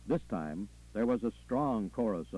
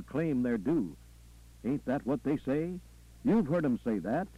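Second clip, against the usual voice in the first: lightly voiced Southern preacher working the crowd; preacher, rhetorical; 3 semitones higher than usual. Preacher challenging what folks say about preachers, rhetorical. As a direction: punctuate the sermon with rhythmic interjections.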